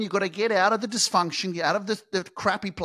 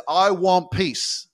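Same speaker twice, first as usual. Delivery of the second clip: slow, drawn-out wish; much slower than usual. Retold or imitated. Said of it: "everyone says".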